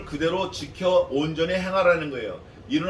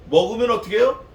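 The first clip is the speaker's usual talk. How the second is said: loud quiz; 5 semitones higher, 7 dB louder than usual. Acted. Preacher quizzes congregation.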